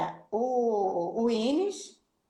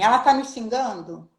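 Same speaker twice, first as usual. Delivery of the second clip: louder "Ela tá me xingando?" with a suspicious fall; suspicious policeman; 6 dB louder than usual. Retold or imitated. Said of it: "Aí ele falou assim pra mim". (policial desconfiado, mais alto)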